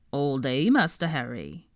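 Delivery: lightly voiced servile elf; meek elf reporting to master; house-elf voice. Creature answering Harry, meek elf voice.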